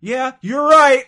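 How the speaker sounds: high, loud and slow fake whisper; a whisper that booms instead; loud mock whisper. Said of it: "him whispering".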